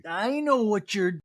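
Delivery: lightly voiced Denise drawling slowly; slow knowing warning; Denise impression. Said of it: "Denise says".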